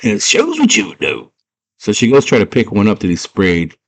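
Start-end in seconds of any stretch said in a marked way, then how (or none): 0.0-1.3 put-on high-pitched girl retorting; know-it-all girl voice. Girl correcting Hoggle about fairies, high mock-girl voice. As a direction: answer back in a high girl's voice. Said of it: "She's like".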